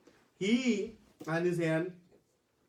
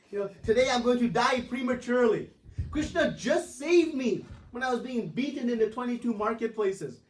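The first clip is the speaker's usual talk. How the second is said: high, loud complaining rant; half-hammed indignant yelling; mock yell; 6 semitones higher, 4 dB louder than usual. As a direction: act out an exasperated old devotee scolding. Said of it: "Haridas Thakur is yelling at".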